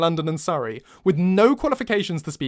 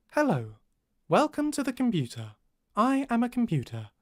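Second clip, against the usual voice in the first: higher, even machine voice; computer voice; 7 semitones higher than usual. Shown as a demonstration. Narrator demonstrating the computer's voice. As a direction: read it like a robot without feeling. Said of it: "the tone of voice of the computer".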